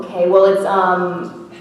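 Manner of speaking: usual speaking voice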